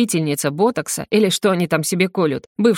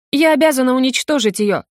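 sobbing; 6 semitones higher than usual. A narrator's reading. Akimova sobs out her vow, tearful. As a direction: cry out through tears. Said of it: "вовсю рыдает".

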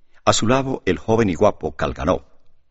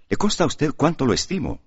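cheerful eagerness; 8 semitones higher than usual. A narrator's reading. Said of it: "añadió Demetrio con alegre solicitud".

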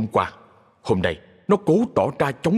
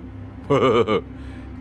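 sheepish laugh. A narrator's reading. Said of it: "cười chữa ngượng".

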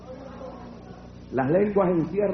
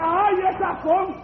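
high, drawn-out mock wail; retold demon's cry; 12 semitones higher, 4 dB louder, slower than usual. Demon recognizing the tongues, imitated high cry. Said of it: "comenzó a gritar en el cuarto".

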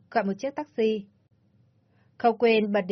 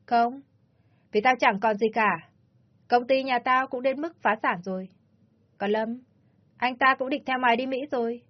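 a slightly raised, resentful woman's voice; bitter rant; 3 semitones higher than usual. Acted. Ly lashing out at the rival who took everything, resentful. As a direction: spit out her grievances.

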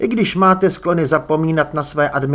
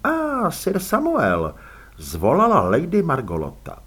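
lightly voiced lady, pitched higher; lilting welcome from a lady host; gracious hostess; 5 semitones higher than usual. Lady greets her titled visitor sir Samuel, lightly gracious.

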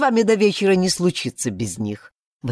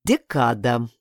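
one lower, curt word; laconic; 5 semitones lower, slower than usual. Acted. Klet answering the sheriff, laconic and lower. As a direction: drop it briefly, no fuss. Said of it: "лаконично отозвался Клет".

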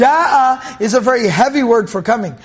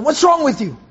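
exasperated, slightly raised challenge; mock reproach; 2 semitones higher than usual. What he never said to his uncle, mock reproach. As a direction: demand an answer in a mild mock scolding. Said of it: "Never once told him".

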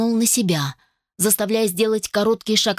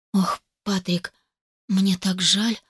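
sincere whisper; slower than usual. Acted. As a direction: murmur it with real sympathy. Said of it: "искренне прошептала я". (искренне, тихо и медленно)

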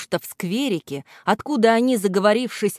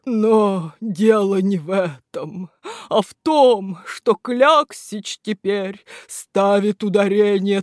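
sorrowful statue; 3 semitones higher, 4 dB louder, slower than usual. Acted. Statue tells its story.

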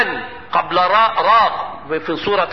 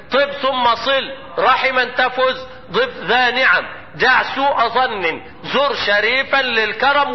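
recited verse; slower than usual. Shown as a demonstration.

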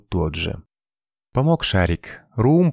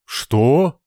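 loud, high startled roar; 6 semitones higher, 5 dB louder than usual. A narrator's reading. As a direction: bellow it in shock. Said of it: "взревел капитан". (громкий рёв, высоко и резко)

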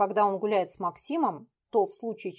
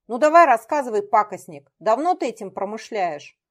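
menacing; 2 semitones higher, 4 dB louder than usual. Acted. Interrogation of poisoner.

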